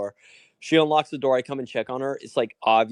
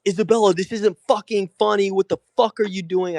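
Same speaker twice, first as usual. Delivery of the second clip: higher-pitched, exasperated retold scolding; retold cussing out; 8 semitones higher, 3 dB louder than usual. Man retells waking to being spat on, exasperated cussing. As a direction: act out cussing someone out, pitched up. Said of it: "I start, like, cussing her out".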